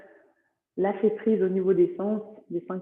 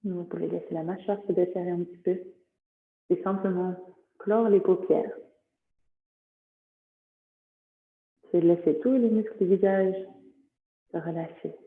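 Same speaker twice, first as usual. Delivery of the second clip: unhurried meditation guide with long pauses; guided relaxation. Acted. Teacher settling yoga nidra students on the floor, guided relaxation. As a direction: ease them gently into rest.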